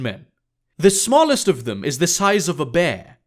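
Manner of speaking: lightly voiced, emphatic woman; blunt Emma. Emma explains following Casimir home, blunt and emphatic. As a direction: tell it with conviction in a slightly put-on voice.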